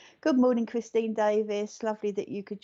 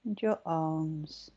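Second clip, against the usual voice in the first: guided meditation. Acted. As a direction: guide them gently into relaxation.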